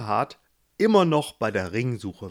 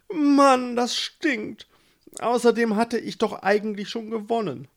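put-on high, self-pitying young man, louder; whiny Gustav; 5 semitones higher, 3 dB louder than usual.

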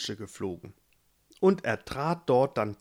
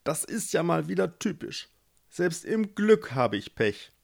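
grumbling to himself; 5 semitones higher than usual. Acted. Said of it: "sprach er zu sich selbst".

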